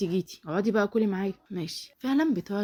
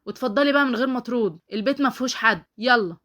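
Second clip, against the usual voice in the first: higher, louder dismissal; curt raised-voice send-off; angry dismissal; 4 semitones higher, 6 dB louder than usual. Acted. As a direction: send an unwelcome cousin away. Acted quarrel, ordering cousin out.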